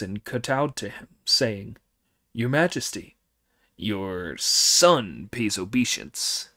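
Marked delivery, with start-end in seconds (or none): 2.3-6.5 slow low demon king; deep reverent demon son; booming demon lord. Acted. Red Boy kowtows to father.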